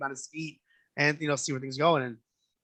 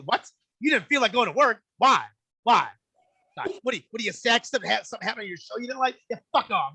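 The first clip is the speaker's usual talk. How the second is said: higher, disbelieving mom mockery; incredulous mom; 6 semitones higher, faster than usual. Mom grilling a girlfriend about skipping work, incredulous scoff. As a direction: scoff at the lazy excuse. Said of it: "She's gonna look, go".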